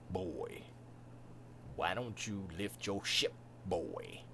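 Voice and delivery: put-on low, quiet, stern 'boy' voice; understated Kratos-style command; Kratos as Yoda. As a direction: drop it deep and soft like Kratos. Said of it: "imagine if Yoda was like Kratos".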